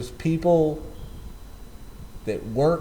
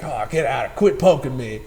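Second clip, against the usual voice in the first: mock annoyed bird; 3 dB louder than usual. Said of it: "the attitude".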